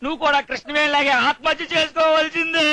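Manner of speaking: theatrical lament. Acted. Visitor laments loudly over Padma's ruin.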